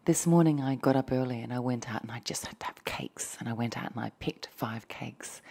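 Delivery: hushed ASMR telling of a small adventure; whispered storytelling. Acted. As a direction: keep it whispered and intimate.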